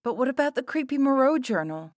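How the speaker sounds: high, loud disbelief; incredulous bawl. A narrator's reading. Sarah challenges the performers, bawling incredulously. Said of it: "bawled Sarah incredulously".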